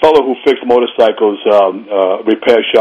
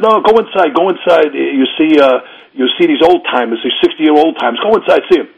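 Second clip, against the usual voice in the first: urging friend; 5 semitones higher than usual. Retold or imitated. Friend urging him to go inside.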